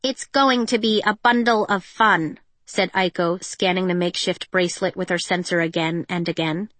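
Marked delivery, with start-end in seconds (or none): 0.0-2.4 sarcastic. Acted. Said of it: "Aiko's been practicing her sarcasm".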